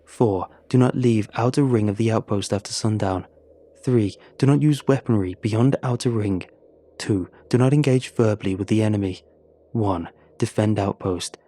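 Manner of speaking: put-on stern, icy Russian accent; cold Russian soldier. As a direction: lay down the law like a hard Russian veteran. Eleanor lists the duties.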